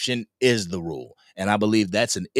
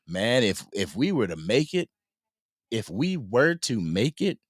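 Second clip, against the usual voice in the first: hopeful dreaming. Retold or imitated. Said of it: "I'll talk like this because I dream big".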